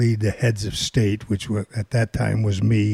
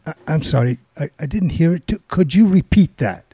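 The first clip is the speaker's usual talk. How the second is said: mock innocent; 4 semitones higher, 5 dB louder, faster than usual. The speaker feigning deafness to caller.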